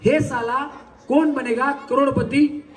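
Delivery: slow, drawn-out show-title call; dialogue demo. Shown as a demonstration. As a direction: demonstrate the line slowly, stretching each word. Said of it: "पहिल्यांदा मी म्हणून दाखवतो". (सावकाश, ताणून डायलॉगचं प्रात्यक्षिक)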